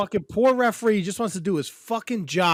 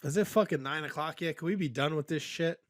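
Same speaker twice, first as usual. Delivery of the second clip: weary mutter; 8 dB quieter than usual. Retold or imitated. Retold tired self at night show.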